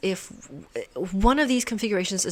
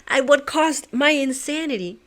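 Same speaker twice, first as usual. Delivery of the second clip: louder, laughing rueful cry; laughing relief; 4 semitones higher, 7 dB louder than usual. Real, not acted. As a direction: laugh it out, half-crazed. Laughing after finishing puzzle.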